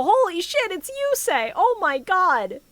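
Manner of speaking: mock starstruck kids. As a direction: play the kids gushing over a celebrity, lightly. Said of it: "and all the kids go".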